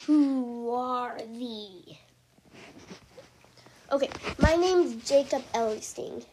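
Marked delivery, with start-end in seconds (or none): 0.1-2.0 very slow, whispered stranger's question; deep voice whisper. A narrator's reading. Guard questions the captives in the dungeon with a slow whisper. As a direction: breathe it out like a hidden guard. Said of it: "a deep voice asked again".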